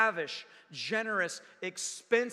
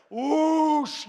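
louder and higher rush of sound; swept-away whoosh; 6 semitones higher, 11 dB louder than usual. Retold or imitated. Stepping into a fast river, loud excited whoosh. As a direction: let the river's pull burst out. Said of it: "you're just like".

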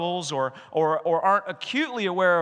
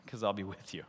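quiet, hushed reassurance as God; God calmly answering doubts; soft reply as God; 9 semitones lower, 11 dB quieter than usual. Retold or imitated. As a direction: drop the voice low and gentle. Pastor voices God answering softly.

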